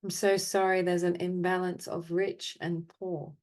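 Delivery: measured phrases with long silences between; guided apology meditation. Acted. Meditation leader offering apologies for the world's imbalance, measured and solemn. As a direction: recite each apology evenly, leaving space to feel.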